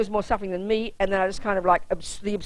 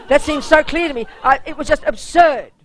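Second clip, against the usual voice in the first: laughing; 7 semitones higher, 5 dB louder than usual. Real, not acted. Laughing at the memory.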